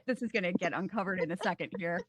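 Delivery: muffled through a costume. Real, not acted. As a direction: talk from under a hat covering the face. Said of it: "if I sound a little muffled".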